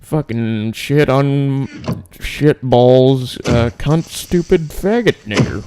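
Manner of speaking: lightly imitated comedian, halting and drawn out; slow mock cursing, pitch jumping up at the end; Louis C K. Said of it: "that was Louis C K".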